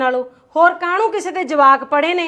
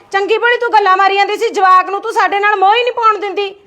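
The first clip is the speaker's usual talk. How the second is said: fast, loud and higher, accusing; angry complaint; 4 semitones higher, 5 dB louder, faster than usual. Acted. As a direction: rattle off the grievance at your sister-in-law. Sisters-in-law quarrel over phone. (ਗੁੱਸੇ ਵਿੱਚ ਤੇਜ਼ ਤੇ ਉੱਚੀ ਸ਼ਿਕਾਇਤ)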